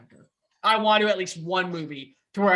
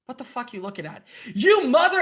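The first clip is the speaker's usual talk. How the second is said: gruff Wolverine; 9 semitones higher, 6 dB louder than usual. Retold or imitated. Wolverine line in imagined scene.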